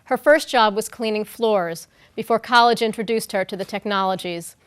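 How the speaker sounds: measured, scripted presenter read; formal introduction. Real, not acted. Host introducing a guest to an audience, formal read. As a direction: read it out as a prepared speaker introduction.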